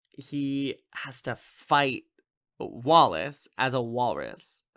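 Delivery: a breathy stage whisper on the punchline. Real, not acted. Podcaster retelling the film, whispering the silly twist. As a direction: lean in and whisper the absurd part. Comic aside while retelling plot.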